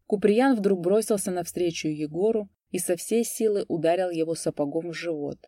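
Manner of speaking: usual speaking voice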